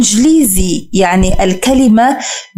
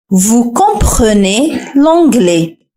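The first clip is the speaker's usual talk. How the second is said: "Vous comprenez l'anglais" again, very slow; slow repeat; much slower than usual. Shown as a demonstration. Teacher repeats the answer for learners, very slowly. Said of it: "حاول أن تركب هذه الجملة".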